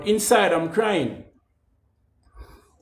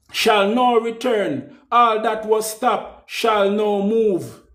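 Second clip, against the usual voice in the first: preaching proclamation. Acted. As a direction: bless them like a preacher with full conviction. Judge's blessing quoted at length.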